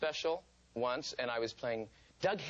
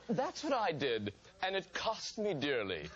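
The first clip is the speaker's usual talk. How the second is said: slow rueful warning; 2 semitones higher, slower than usual. Retold or imitated. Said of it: "He said".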